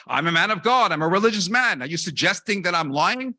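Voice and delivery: mock outrage at the waiter; a rabbi hamming up the priest's bluster; indignant. Rabbi copies priest's indignant claim.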